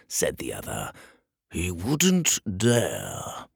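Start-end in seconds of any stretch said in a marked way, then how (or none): 1.5-3.5 slow, drawn-out disbelief; disbelieving dismissal. Acted. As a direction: stretch it out dismissively. Wizard dismisses the threat.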